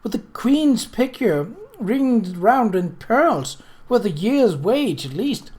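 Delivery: high, slow, stricken plea; stricken cry. A narrator's reading. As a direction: wail it out in dismay, slowly. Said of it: "Nettie cried, stricken".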